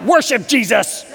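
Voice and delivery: belted high and loud, hammed-up singing along; mock worship belting.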